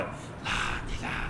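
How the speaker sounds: breathy whisper of লা ইলাহা; soft slow whisper; whispered softly. Shown as a demonstration. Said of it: "প্রথমটা আস্তে আস্তে".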